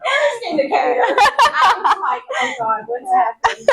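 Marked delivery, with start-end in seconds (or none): 2.4-3.7 mild mock panic, laughter still in it; retold panic. Retelling a scare at work, lightly panicked. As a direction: act out a small panic, half laughing. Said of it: "I went into panic mode".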